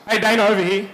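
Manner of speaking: calling out loud from the crowd; shouting across a field. Real, not acted. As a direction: call out to get his attention.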